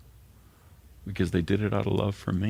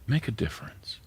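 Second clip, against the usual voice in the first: hushed exhortation; 4 semitones higher, 4 dB quieter than usual. Real, not acted. Closing exhortation.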